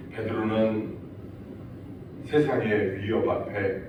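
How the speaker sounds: ordinary talk, nothing marked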